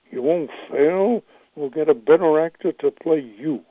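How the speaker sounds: Sheldon Leonard. Acted. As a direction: draw out the words like a producer delivering his verdict. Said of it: "this is a good impression of him".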